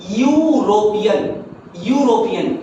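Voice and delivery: यूरोपियन slowed, leaning on the opening "yoo"; sounding out the word. Shown as a demonstration. Teacher showing students the yoo sound, drawn out. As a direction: say यूरोपियन slowly, starting with a clear "yoo". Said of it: "किसकी आवाज आ रही है".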